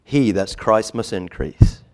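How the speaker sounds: loud, ringing quote; loud pulpit proclamation; emphatic quote. Acted. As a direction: proclaim it with force. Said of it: "So he said in summary".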